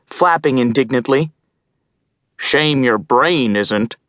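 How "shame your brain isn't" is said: cackling crow. Acted. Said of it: "Glum cackled".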